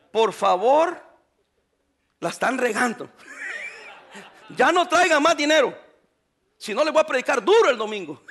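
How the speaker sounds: half-laughing pretend message; laughing mock plea. Pastor joking to the church about his message, laughing. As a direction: joke through laughter. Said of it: "que yo les escriba aquí".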